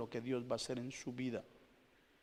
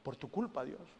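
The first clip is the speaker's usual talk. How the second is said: louder, higher accusing cry; a believer blames God, rising to an accusing cry; blaming God; 8 semitones higher, 6 dB louder than usual. Retold or imitated. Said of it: "las culpas que le echamos a Dios".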